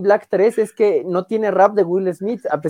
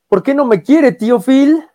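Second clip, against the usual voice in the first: retold tearful plea; 5 semitones higher, 4 dB louder than usual. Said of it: "Es cuando le dice".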